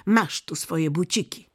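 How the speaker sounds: put-on mildly bossy robber girl. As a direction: hand things over briskly. Robber girl dresses Gerda.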